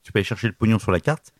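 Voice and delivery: throat catching, about to cough; hoarse, cough breaking through; coughing fit. Real, not acted. (voix prise par la toux)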